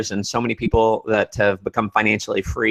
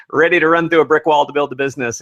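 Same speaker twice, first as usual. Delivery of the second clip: excited; 4 semitones higher, 4 dB louder, faster than usual. Real, not acted. Hyping up the listeners.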